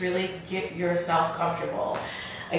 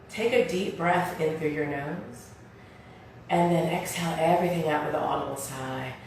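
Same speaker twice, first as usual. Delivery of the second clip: guided meditation; 6 dB quieter than usual. Real, not acted. Leads seated breathing meditation.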